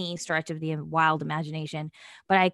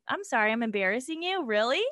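higher-pitched, incredulous questioning; retold disbelief, pitched up; mock indignant; 4 semitones higher, faster than usual. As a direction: act out an offended comeback. Retold indignant comeback to brother.

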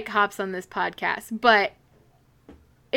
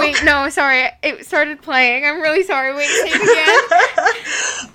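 laughing; 4 semitones higher, 5 dB louder than usual. Real, not acted. Apologizing while laughing at missed joke.

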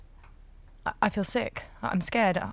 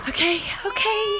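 exasperated; 12 semitones higher than usual. Acted. Giving up, exasperated.

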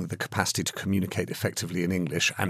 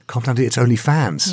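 amused disbelief; 3 semitones higher, 5 dB louder than usual. Real, not acted. Host echoes the story title back.

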